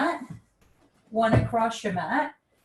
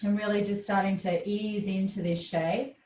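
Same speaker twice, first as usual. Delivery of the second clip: calm, slightly lowered yoga voice; restorative yoga guidance; 3 semitones lower, 3 dB quieter than usual. Real, not acted. Yoga teacher helps class darken their space and settle, calm guidance. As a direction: settle them into the pose, unhurried and gentle.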